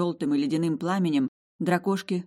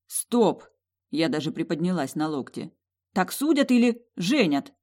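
startled outburst; 3 dB louder than usual. Acted. Heroine startled by revelation.

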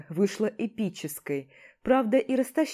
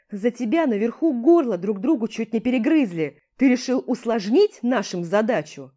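loud barking orders and scolding; commander yelling; 6 dB louder than usual. Acted. Commander scolds the fighter and his men, loud yelling. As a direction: bark at the troops, furious. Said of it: "Оглохнуть можно от его ора".

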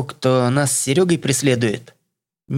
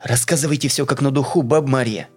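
commanding; 4 semitones higher than usual. Acted. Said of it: "почти приказала девушка".

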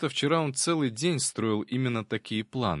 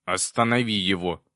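louder demon cry, mild panic; panicked yell; 5 dB louder than usual. A narrator's reading. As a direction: cry out for help in alarm. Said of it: "в панике заорал Проныра".

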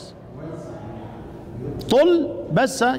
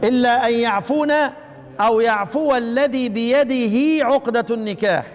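Quran recitation. Shown as a demonstration. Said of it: "بالإشباع".

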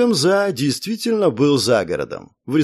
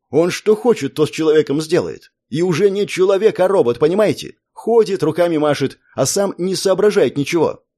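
shaken tearful witness; 4 semitones higher than usual. Acted. Drunk frightened man rambles.

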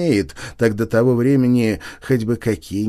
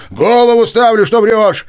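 louder and much higher, jeering; loud accusation; 11 semitones higher, 9 dB louder than usual. Acted. Nozdryov jeers at Chichikov, loud accusing. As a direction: bet your head on it, loudly.

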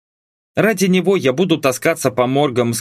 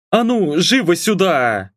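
higher-pitched, understated bossy summons; booming command; 6 semitones higher than usual. A narrator's reading. Mum summons father to the kitchen, mildly booming command. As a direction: order him in, lightly hammed-up. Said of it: "Раздался зычный мамин бас".

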